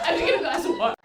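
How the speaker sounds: high, thin hammed-up shakiness; mock shaken. Dreamer telling partner she needs water, mock shaken. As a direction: play it rattled and fragile.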